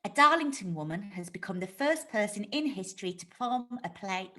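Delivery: measured bulletin delivery; news read. Shown as a demonstration. Jade trying out a mock news bulletin. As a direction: read it straight like a newsreader. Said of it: "Starting again".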